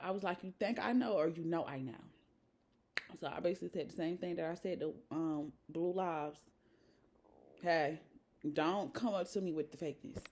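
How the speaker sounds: dropped way down, soft and close; hushed retelling. Real, not acted. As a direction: tell it in a low confiding voice. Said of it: "storytelling quietly to camera".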